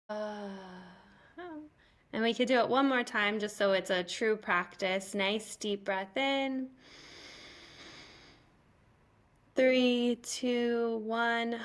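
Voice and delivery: calm guiding voice counting down the breath; soothing breathwork guide; guided breathing. Shown as a demonstration.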